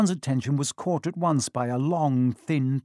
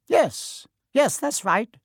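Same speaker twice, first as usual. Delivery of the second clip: much higher, squeaky tiny teacher's voice; squeaky little professor; 10 semitones higher, slower than usual. Acted. Small professor breaking up boys arguing, squeaky much higher voice. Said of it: "he squeaked".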